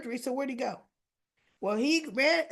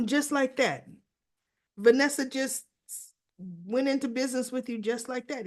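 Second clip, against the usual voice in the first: incredulous; 3 semitones higher, 5 dB louder than usual. Retold or imitated. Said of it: "And he goes".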